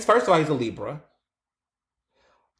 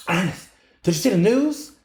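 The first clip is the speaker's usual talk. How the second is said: put-on older caller; 5 semitones higher than usual. Older member calling with news.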